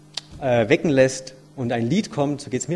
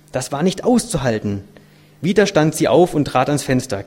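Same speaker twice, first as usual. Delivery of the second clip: measured, dramatic storytelling; expressive read-aloud voice; story narration; 3 dB louder than usual. A narrator's reading. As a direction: read the tale aloud with weight on key words.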